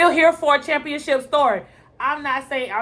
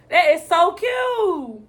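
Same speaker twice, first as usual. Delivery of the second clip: higher, slow, drawn-out gushing; 4 semitones higher, 4 dB louder, much slower than usual. Real, not acted. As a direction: stretch it out and lift it. Gushing over a moment.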